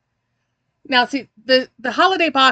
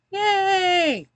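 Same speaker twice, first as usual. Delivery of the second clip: excited cheer; 8 semitones higher than usual. Real, not acted. Cheering at the box arriving.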